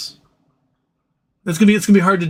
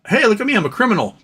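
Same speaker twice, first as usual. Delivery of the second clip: mock silly confession; 8 semitones higher, faster than usual.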